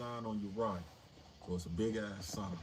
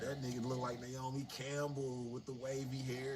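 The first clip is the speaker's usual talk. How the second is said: higher, lecherous leering con voice; predatory old inmate; 4 semitones higher, slower than usual. Retold or imitated. Old inmate sizing up a newcomer, leering. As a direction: leer at the new kid like an old predator.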